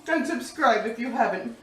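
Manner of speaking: talking through a mouthful; words round a bite of scone; mouth full. Real, not acted. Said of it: "forgive me for talking with my mouth full".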